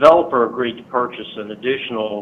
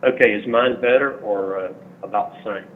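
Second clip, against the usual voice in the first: caller on a speakerphone line; tinny, phoned-in voice from afar; over the phone; 9 semitones higher than usual. Real, not acted. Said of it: "Be sure to speak into your phone".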